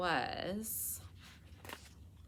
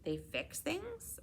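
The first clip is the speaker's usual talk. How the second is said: much higher, slow rising They fix things?; a stunned girl echoing news; surprised question; 12 semitones higher, 4 dB quieter, slower than usual. Acted. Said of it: "Mia asks in disbelief".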